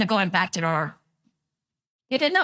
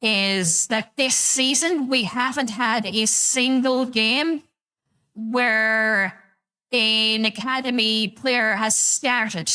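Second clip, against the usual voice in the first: altered, unnatural filtered voice; voice changer filter; 2 semitones lower than usual. Real, not acted. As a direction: speak through a voice changer. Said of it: "What bloody voice is this?".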